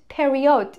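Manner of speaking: پریود said the Persian way, 'peri-od'; retold learner saying پریود with a clear 'od' ending; Persian-style mispronunciation.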